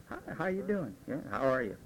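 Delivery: soft, easy hello at the start of the night; low-key friendly hello; early bar greeting. Retold or imitated. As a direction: greet them quietly, early evening. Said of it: "One or two".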